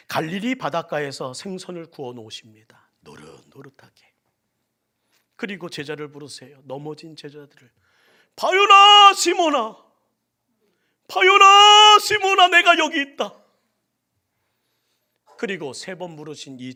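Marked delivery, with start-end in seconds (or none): 3.0-4.1 savoring whisper, breath only. Acted. Preacher to congregation, whispering about the fish. 8.4-13.3 long, slow, much higher calling shout. Acted. Jesus calling Peter from the shore, slow loud shout.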